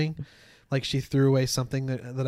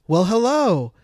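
a touch of Southern drawl, louder; lightly put-on Southern accent, higher and louder; imitated Southern accent; 5 semitones higher, 6 dB louder, slower than usual. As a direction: greet like a cat with a Southern accent. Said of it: "in, like, a Southern accent".

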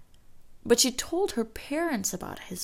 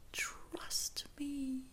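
high, breathy, much softer; fading echo; 7 semitones higher, 11 dB quieter than usual. Retold or imitated. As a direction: repeat it like an echo receding. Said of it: "her friend's voice ringing in her ears".

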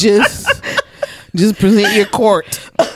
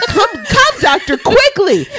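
high, mock-urgent call for help; fake panic; 12 semitones higher than usual. She imagines fake-calling the doctor in high mock panic. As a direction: pretend frantic call for the doctor. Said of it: "and be like".

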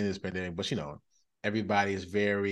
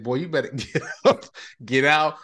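mock stern dad; 4 semitones higher, 5 dB louder than usual. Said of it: "I was like".

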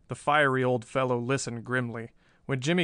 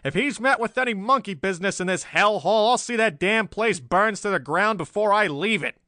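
loud, high-pitched angry tirade; wicked roar; 8 semitones higher, 6 dB louder than usual. A narrator's reading. Angry chief storming down the hall, roaring threats. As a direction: keep roaring the threat right through. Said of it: "roared a wicked voice".

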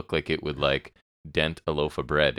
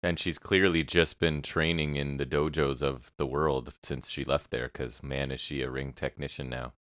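dry, understated sarcasm; deadpan mock admiration; sarcastic; 3 dB quieter than usual. Real, not acted. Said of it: "That was me being sarcastic".

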